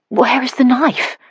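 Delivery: high, slow, stunned question; bewildered. Acted. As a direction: ask it as if stunned. Stabbed, bewildered and breathless.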